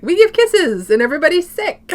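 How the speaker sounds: high and loud, laughing through it; laughing mock announcement. Recounting the sick family's midnight kiss, laughing. Retelling their New Year's answer.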